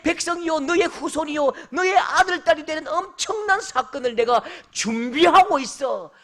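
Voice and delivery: high, loud, swelling voice of God declaring a promise. Acted. God tells Abraham of his great plan, loud and fervent. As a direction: proclaim it as God speaking, rising to tears.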